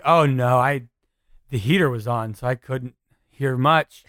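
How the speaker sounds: frozen self. Shown as a demonstration. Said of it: "when I did me, frozen stance".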